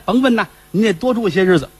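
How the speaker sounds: butter up the master; eager servant. Acted.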